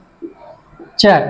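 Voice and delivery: এগ্রিকালচার split up with long pauses; syllable by syllable. Shown as a demonstration. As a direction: separate the syllables of এগ্রিকালচার for counting. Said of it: "চারটা করে syllable আছে".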